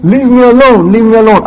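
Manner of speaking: lightly hammed tyrant; Pharaoh blustering. Pharaoh to his court, light mock bluster. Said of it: "But he's saying".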